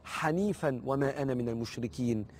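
slow, measured recital of a prayer; measured devotional recitation. Shown as a demonstration. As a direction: recite the supplication slowly, phrase by phrase. Recites the opening supplication.

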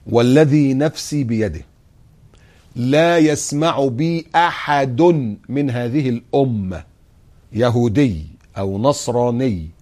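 slow, weighty recitation, each phrase drawn out; solemn hadith recitation. Acted. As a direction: intone the hadith slowly and gravely. (تلاوة بطيئة ورزينة للحديث)

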